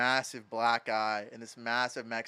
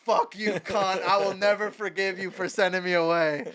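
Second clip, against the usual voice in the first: retold angry outburst; 6 semitones higher, 5 dB louder than usual. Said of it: "and I was like".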